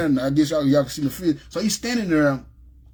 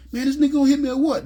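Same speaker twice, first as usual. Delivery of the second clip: inner thought; 10 semitones higher, faster than usual. Retold or imitated. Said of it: "That's what I'm thinking to myself".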